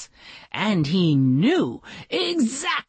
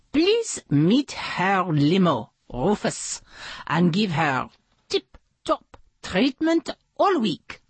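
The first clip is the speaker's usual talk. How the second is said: lightly voiced boss giving orders; bossy hotel manager. Hotel boss instructing her bellhop, lightly voiced orders.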